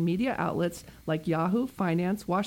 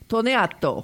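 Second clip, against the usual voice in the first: rolled, sing-song Italian-style name; mock Italian accent; 3 semitones higher, 4 dB louder, slower than usual. Host introducing her guest in playful Italian accent. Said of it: "Now I'm gonna do it in my Italian accent".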